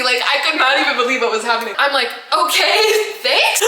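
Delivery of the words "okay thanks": high, slow, breaking into laughter; laughing mock thanks. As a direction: squeak out thanks through a laugh. Absurd thanks while fleeing.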